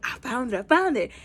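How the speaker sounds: mildly excited, rising on the repeat; happy announcement. Retold or imitated. Runner reporting back to the team, happy and mildly excited. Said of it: "she's, like, all happy".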